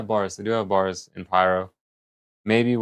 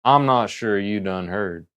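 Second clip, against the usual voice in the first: put-on cowboy accent; slower than usual. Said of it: "Cowboy accent".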